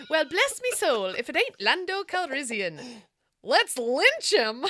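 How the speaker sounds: lightly put-on Irish accent; a hint of Irish brogue. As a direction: read the line as an Irish rogue. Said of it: "like, very Irishy".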